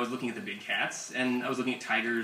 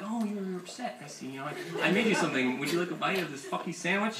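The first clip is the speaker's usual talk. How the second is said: soft, mostly higher pretend cat; unbothered cat voice; 4 semitones higher, 3 dB quieter than usual. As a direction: play a cat mildly noting someone's upset. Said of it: "give you this look like".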